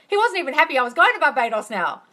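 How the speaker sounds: laughing. Retold or imitated. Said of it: "Neville laughs and he goes".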